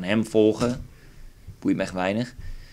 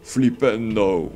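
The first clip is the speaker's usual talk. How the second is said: spell cast; 4 dB louder, much slower than usual. Pretend. Casting a spell.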